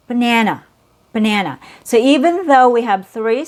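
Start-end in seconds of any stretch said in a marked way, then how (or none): 0.1-1.6 banana with a weak schwa start and end; model word banana. Shown as a demonstration. Teacher repeating banana after the syllables. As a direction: say banana as buh-NA-nuh. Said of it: "same idea".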